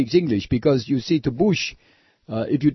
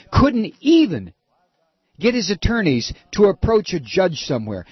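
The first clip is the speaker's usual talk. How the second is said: building outrage; 4 semitones higher than usual. Real, not acted. Host outraged over Padilla's treatment, rising angry shout. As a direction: lean hard into the words.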